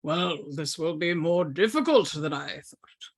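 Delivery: breathy whispered aside; whispering. Acted. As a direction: whisper it to yourself, scheming. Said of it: "Yandineth looks and goes".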